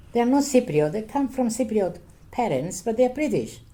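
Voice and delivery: retold heated defense of her British children; upset retort. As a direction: relive the indignant comeback, rising as you go. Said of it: "I used to get very upset".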